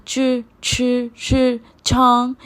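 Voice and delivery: च, छांग said slowly with a puff; pinyin c sound. Shown as a demonstration. Teacher modelling pinyin c in छांग, slowly. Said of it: "च की तरह से sound आता है".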